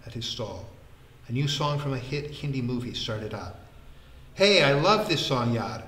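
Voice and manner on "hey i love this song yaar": loud, excited exclamation; crying out. A narrator's reading. Vikram hears a favourite song, crying out excitedly. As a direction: burst out with sudden delight. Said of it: "Vikram cried out".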